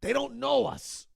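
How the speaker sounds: hushed parent scolding; whispered scolding. Retold or imitated. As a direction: hiss at the kids to hush. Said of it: "They're like".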